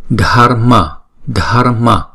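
"dharma" with a light tongue tap for r; "Dharma" with a flick of the tongue; flapped r in dharma. Shown as a demonstration. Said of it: "mà là đánh lưỡi thôi".

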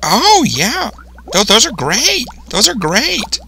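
put-on high, bright praise to kids; excited praise. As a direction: cheer on the viewers' answers. Praising imagined viewer answers.

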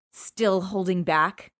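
snarled. Acted. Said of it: "I snarled".

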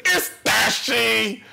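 very slow, high intro yell; stretched-out shouty YouTuber intro; Dashy. Acted. Announcing himself as the gamer in a high Dashy voice. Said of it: "if I do his voice".

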